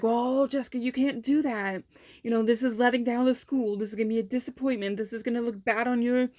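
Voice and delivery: lightly mimicked pleading official; guilt-tripping principal. Principal to student leaving the school trip, guilt-tripping. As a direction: imitate a principal laying on disappointment.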